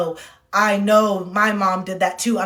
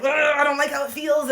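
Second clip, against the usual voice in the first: higher, groaning complaint; venting discomfort; 5 semitones higher than usual. Retold or imitated. Sitting with uncomfortable feelings, venting discomfort. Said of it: "I sat with the uncomfortable feelings".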